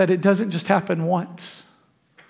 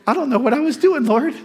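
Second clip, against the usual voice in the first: sheepish apology; 4 semitones higher than usual. Pretend. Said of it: "just have to snap out of it and go".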